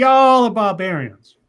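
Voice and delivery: Southern scorn. Acted. Southern mock disgust.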